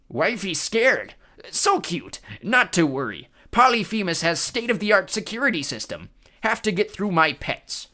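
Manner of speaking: loud high giant, slow; cyclops voice. A narrator's reading. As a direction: boast like a dim giant.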